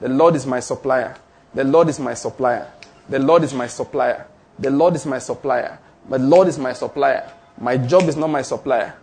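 lightly voiced faith declaration. Shown as a demonstration. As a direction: chant it like a daily affirmation. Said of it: "I'm declaring".

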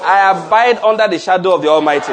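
loud, emphatic, stress on no; a rousing pulpit declaration. Shown as a demonstration. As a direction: lead the church in declaring. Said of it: "Let's declare again".

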